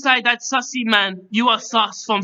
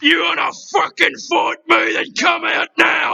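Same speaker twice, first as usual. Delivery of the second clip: mock challenge; 3 semitones higher than usual. Host challenges intruder to fight.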